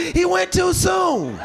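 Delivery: slow, high wail of grief from a mourner. Retold or imitated. Mourner at the funeral calls out, slow high wail. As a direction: draw it out like a wailing relative. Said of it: "Somebody yelled out".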